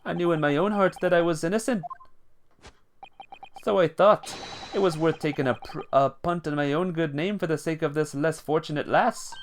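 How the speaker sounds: put-on a light Irish lilt, reassuring the girl; kindly Irish gent soothing the lass; Irish accent. The Irishman explains his sacrifice.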